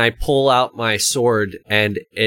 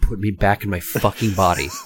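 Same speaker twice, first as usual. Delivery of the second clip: spoken in a whisper; 2 semitones lower than usual. A player's character gets up close to the pillars, whispering. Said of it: "and whisper".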